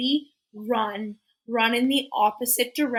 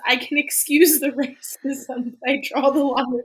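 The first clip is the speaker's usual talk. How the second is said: Britta; 4 semitones higher, 7 dB louder than usual. Retold or imitated. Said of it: "Britta, who is".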